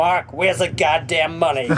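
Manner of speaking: put-on American accent. Retelling a phone call from the manager, in an American accent. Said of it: "there's this American voice on the end of the phone".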